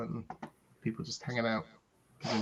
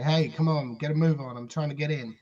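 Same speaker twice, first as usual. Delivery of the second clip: put-on grumpy old man; 2 semitones higher, 7 dB louder than usual. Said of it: "some old guy ... and say".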